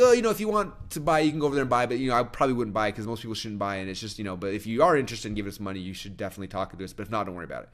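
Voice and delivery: mock nervous backpedalling that gradually drops away; nervous sales pitch. Presenter asking the room for money, mock nervous rambling. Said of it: "she's sweating and she gets nervous".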